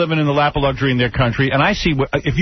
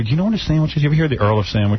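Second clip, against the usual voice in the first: condescending question; faster than usual. Retold or imitated. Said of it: "Talking down".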